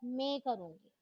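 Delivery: student defying the teacher in a sharp voice. Acted. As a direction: throw the challenge back hard. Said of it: "अपनी तीखी आवाज में कहा".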